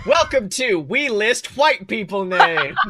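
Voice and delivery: slow, grand announcer voice through laughter; laughing mock show host. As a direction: present it like a TV show intro. Announces joke show title.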